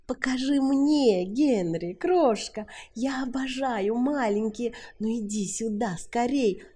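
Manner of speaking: high, loud eager purr; woman urging a man to prove himself; seductive Sally. A narrator's reading. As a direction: beckon him hungrily. Sally luring Wilt closer.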